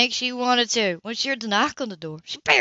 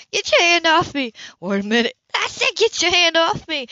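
sharp, louder, higher warning; angry demand; 7 semitones higher, 3 dB louder than usual. A narrator's reading. Anna orders Cam to let go, angry. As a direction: get off me, furious. Anna pulls away angrily.

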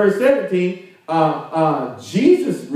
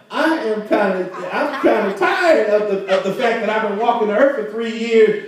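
mildly exasperated complaint; acted weary irritation, pitched up; Jesus, fed up; 4 semitones higher than usual. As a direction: vent like someone tired of repeating himself. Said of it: "he did tell you exactly how he felt".

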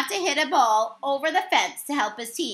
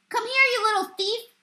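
growled; 9 semitones higher than usual. A narrator's reading. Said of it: "he growled".

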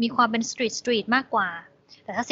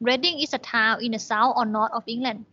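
very slow, careful English reading; slow reading aloud; much slower than usual. Shown as a demonstration. Teacher rereads the sentence to students, slow. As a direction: read the sentence slowly for learners. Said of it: "rereads exercise sentence".

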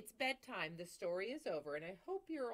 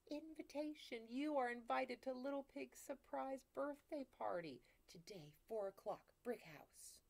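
higher, fading to a hush; reading a note; 6 semitones higher than usual. Acted. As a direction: read the invitation with rising excitement, then hush.

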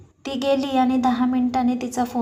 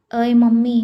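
calling out; 6 dB louder than usual. Acted. Son calls mother outside.

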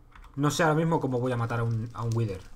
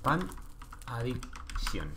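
slow spelling-out; 8 dB quieter, much slower than usual. Shown as a demonstration. Spelling out a viewer's name.

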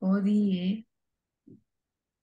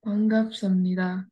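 반갑습니다 joined up more quickly; fluent repetition; faster than usual. Shown as a demonstration. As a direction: copy the teacher's flowing 반갑습니다. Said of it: "Like this".

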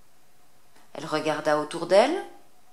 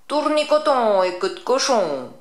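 loud, higher cackling witch incantation; witch crying out; 6 semitones higher, 6 dB louder than usual. Acted. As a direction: cast it like a gleeful old witch. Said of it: "elle s'écria".

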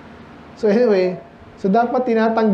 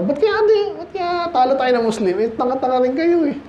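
mock puzzled whine; 5 semitones higher than usual. Mocking puzzled Europeans.

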